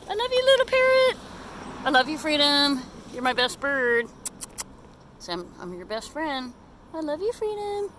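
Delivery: soft, loving pet talk; tender. Real, not acted. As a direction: tell the bird you love it. Tender to parrot.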